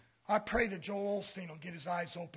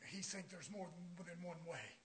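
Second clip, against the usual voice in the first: mock Joel Osteen; 3 semitones lower, 9 dB quieter than usual. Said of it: "Joel Osteen says".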